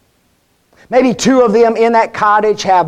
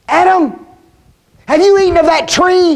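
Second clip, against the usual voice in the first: raised, louder divine call; God summoning a hiding Adam, stern and raised; 9 semitones higher, 4 dB louder than usual. Acted. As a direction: call out to Adam from above, demanding. God confronting Adam in Eden.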